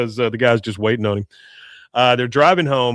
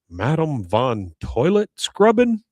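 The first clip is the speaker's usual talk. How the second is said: drawn-out reveal; slower than usual. Retold or imitated. Reveals a mocking punishment name.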